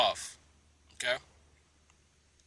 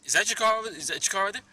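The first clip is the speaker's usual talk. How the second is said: high, loud mocking question; exasperated put-on voice; 8 semitones higher, 6 dB louder, faster than usual. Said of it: "he's like".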